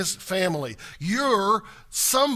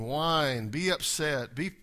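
ordinary delivery

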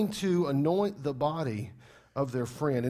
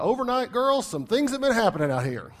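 excited angel paraphrase; 7 semitones higher, 6 dB louder than usual. Pretend. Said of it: "That's a paraphrase".

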